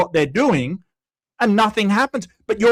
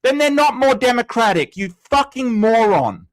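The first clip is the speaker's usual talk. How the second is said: angry rant; 5 semitones higher, 3 dB louder than usual. Real, not acted. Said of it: "Sorry, rant over".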